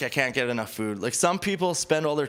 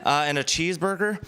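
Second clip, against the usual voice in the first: casual customer ordering a wedding like fast food; drive-through order; 4 semitones higher than usual. Pretend. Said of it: "you're just like".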